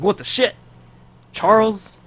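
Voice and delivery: high, incredulous mock outburst; startled disbelief. Acting out the character finding someone behind her, startled disbelief.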